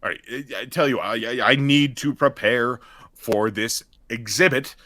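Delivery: lightly voiced stern dean.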